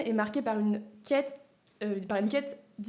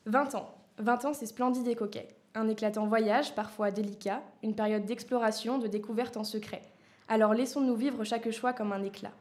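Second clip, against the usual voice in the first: poème lu posément, phrasé régulier; lecture de poème. Acted. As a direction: lis ton poème vers après vers, sobrement. Lit son petit poème. (lecture de poème sobre et posée)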